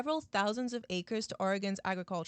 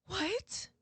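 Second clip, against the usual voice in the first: put-on scandalized small-town American accent, high-pitched; badly faked American townsfolk accent, drawn out; attempted American accent; 6 semitones higher, slower than usual. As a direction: gasp out a mock-shocked American accent. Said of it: "I can't do an American accent".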